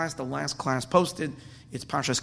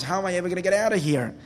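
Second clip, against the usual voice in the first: fast, higher-pitched acted dismay; panicked wolf; 4 semitones higher, 3 dB louder, faster than usual. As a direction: rush it out in mock panic. Trapped wolf realizes trouble.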